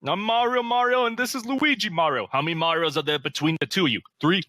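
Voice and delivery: high hammy Mario voice; quoting Mario. Retold or imitated. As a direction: squeak out Mario's intro. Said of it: "my favorite lines in that movie".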